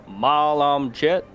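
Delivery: slow, drawn-out Goblin greeting; speaking Goblin. Acted. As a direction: introduce yourself slowly in Goblin. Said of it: "I can speak Goblin".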